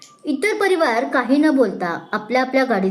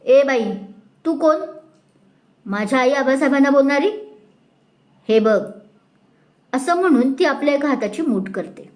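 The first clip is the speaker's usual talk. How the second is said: put-on drunken threat; 2 semitones higher than usual. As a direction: threaten her with your fist raised. Drunk girl threatens with fist.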